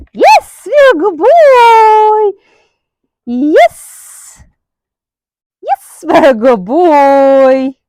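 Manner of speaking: high, loud, slow drawn-out praise; gushing praise. Real, not acted. Trainer gushing over her good boy, high and drawn-out. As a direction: stretch out the praise lovingly.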